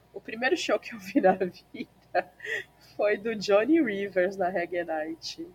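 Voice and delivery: choked up mid-sentence; words through a choke; choking. Real, not acted.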